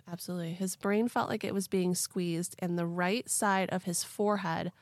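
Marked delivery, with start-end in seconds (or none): 0.1-0.5 breathy whispered agreement. Real, not acted. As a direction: whisper back conspiratorially. Whispered reply.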